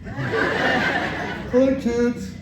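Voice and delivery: put-on creepy kids' show host, slow and drawn out; creepy playful under bed whisper. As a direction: greet the kids like a sinister clown. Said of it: "your kid show thing".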